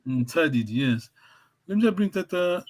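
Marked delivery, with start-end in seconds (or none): 0.1-0.6 "Ntadidi" said with the N barely sounded; silent N. Shown as a demonstration. Teacher correcting student, "Ntadidi" without a sounded N. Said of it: "You don't say N Sadi".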